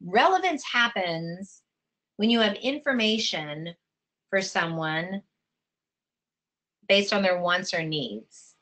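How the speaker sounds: slow, with long pauses between phrases; dictation. Shown as a demonstration. Teacher repeating the definition to be written down, slow dictation. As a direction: dictate it phrase by phrase for note-takers. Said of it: "Write that down".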